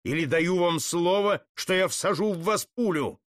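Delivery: freeze them with the threat; stern threat. Acted. Putilin holding the Jesuits at gunpoint, stern.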